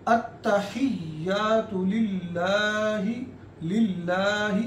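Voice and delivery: लिल्लाहि with the ला stretched one alif long; long vowel. Shown as a demonstration. Teacher showing the long vowel in लिल्लाहि. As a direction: draw out the ला in लिल्लाहि slowly. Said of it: "एक अलिफ की मिकदार लंबा करना है".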